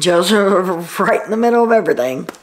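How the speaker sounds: a real laugh slipping into the sentence; laughing mid-line. Real, not acted. Vlogger fumbling the line about Joseph, laughing. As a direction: laugh through the name, then carry on. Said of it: "Joseph is right in the middle of everything".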